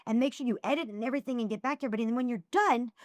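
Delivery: exasperated lecture, pitch climbing through the list; retold mad rant. Woman listing her message workload to a fan, retold as mad. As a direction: pile up the chores in mock telling-off. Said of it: "I was so mad".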